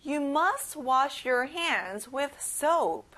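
very slow, stretched choral read; slow practice read. Shown as a demonstration. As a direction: drag it out so everyone keeps up. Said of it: "같이 practice 해볼게요".

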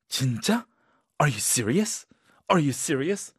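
really surprised. Shown as a demonstration. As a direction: sound truly amazed. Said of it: "really surprised 한 상황에서".

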